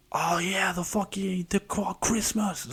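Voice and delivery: high, mocking sing-song kid voice; mocking spoiled kid. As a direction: sneer at the spoiled kid you used to be. Mocking his younger self's holidays.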